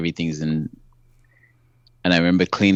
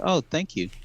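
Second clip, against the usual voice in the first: matter of fact; 8 semitones higher, 4 dB quieter than usual. Retold or imitated. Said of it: "I was so matter of fact".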